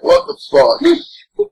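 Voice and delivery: high, slow, drawn-out confusion; slow baffled voice. Retold or imitated. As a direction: stretch it out, totally baffled. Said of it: "He's like".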